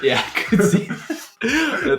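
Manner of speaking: high, loud laughing agreement. Real, not acted. Listener reacting to bear joke, laughing. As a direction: agree through a burst of laughter.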